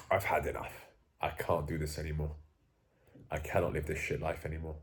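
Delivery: low, soft, fed-up inner voice; quiet resolve. Retold or imitated. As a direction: say it to yourself, done with it. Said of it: "you say to yourself".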